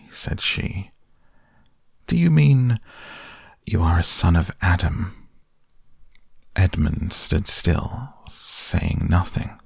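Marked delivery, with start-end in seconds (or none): 2.1-5.3 sudden alarm under the queen's poise; startled question. Acted. Queen startled by the word boy.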